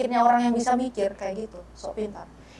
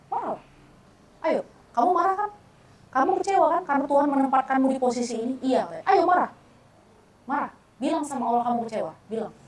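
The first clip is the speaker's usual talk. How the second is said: higher, pushy coaxing; urging challenge; 3 semitones higher than usual. Retold or imitated. Speaker daring her angry friend to speak up, coaxing. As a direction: dare her to let it out.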